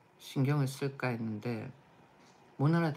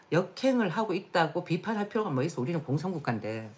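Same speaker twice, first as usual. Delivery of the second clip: sarcastic; 5 semitones higher, 4 dB louder than usual. Real, not acted. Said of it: "repeats quote, mocking".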